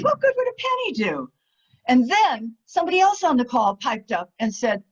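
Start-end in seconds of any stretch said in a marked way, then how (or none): 0.0-1.3 mock scoffing woman.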